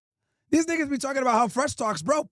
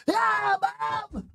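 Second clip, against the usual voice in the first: put-on goofy kid voice; 8 semitones higher than usual. Son greeting mom at principal.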